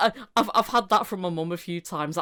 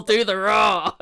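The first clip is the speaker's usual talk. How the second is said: louder demand with a laugh; 3 semitones higher, 8 dB louder, slower than usual. Retold or imitated. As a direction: say it cracking up. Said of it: "another example".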